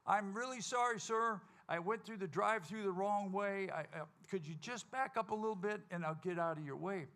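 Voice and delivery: overly polite, trying to calm him down; nice voice. Retold or imitated. Telling the cussing truck driver sorry, in an overly sweet polite voice. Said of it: "in my nice voice".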